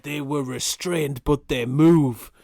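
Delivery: mind blown. Retold or imitated. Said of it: "He's like".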